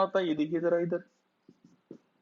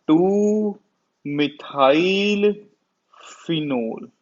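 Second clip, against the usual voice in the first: slow dictation; much slower than usual. Shown as a demonstration. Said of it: "क्या बोलते हैं हम इसको".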